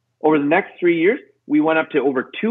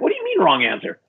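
mildly incredulous retort; acted-out puzzled objection; retold indignation; 3 semitones higher than usual. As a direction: question it back in mock disbelief. Retold disbelief at wife's verdict.

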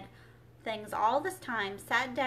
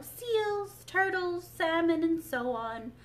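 higher, louder listing; crying out; 5 semitones higher, 5 dB louder than usual. A narrator's reading. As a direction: call out each creature eagerly. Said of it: "cried the Mock Turtle".

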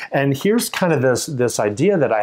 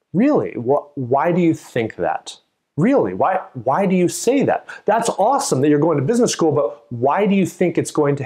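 surprised questioning; 3 semitones higher than usual. Shown as a demonstration. Listener on the street questioning the claim, surprised. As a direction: ask back, genuinely intrigued. Acted sceptical listener reply.

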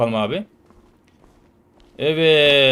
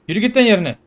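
gruff order; 6 semitones higher, 6 dB louder, faster than usual. Pretend. Guard orders prisoner back.

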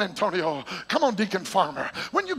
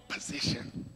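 whispered position; 14 dB quieter than usual. Acted. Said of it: "one-word aside".

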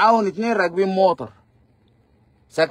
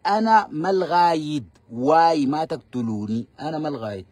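slow, lower, fading plea; mock pleading captive; 4 semitones lower than usual. Mocking the captive pleading with the fighters. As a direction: beg for your life, mockingly. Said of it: "الفيديو واضح وصوته واضح".

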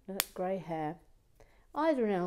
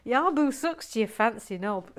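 loud, a touch higher, half-laughing indignation; mock indignant quote; 4 semitones higher, 6 dB louder than usual. Host rereading the viewer's insult, amused and mock indignant. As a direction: read the outraged viewer with a grin. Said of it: "he says".

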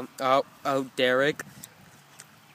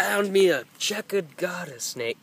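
bad Australian accent; 4 semitones higher, slower than usual. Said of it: "I can't do it".

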